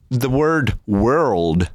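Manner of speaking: world said slowly, stretching the rl cluster; careful world. Shown as a demonstration. Teacher slowly modelling the hard word world. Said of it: "it's a tongue twister for me".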